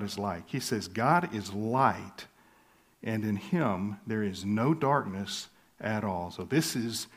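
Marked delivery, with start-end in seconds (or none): 0.9-6.3 LIGHT drawn out slowly, weight on each word; emphatic statement. Retold or imitated. Preacher quoting John's summary of God, emphatic. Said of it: "with this emphatic statement".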